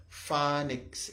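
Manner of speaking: "phonics" as FAN-iks, short A; correct pronunciation. Shown as a demonstration. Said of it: "It's like F A N I K S".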